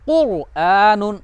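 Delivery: कुरआनुन very slow, with a heavy R; thick heavy R. Shown as a demonstration. Teacher modelling the second example, slow thick R. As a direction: draw out कुरआनुन, rounding and thickening the R. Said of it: "मोटी करके पढ़ेंगे".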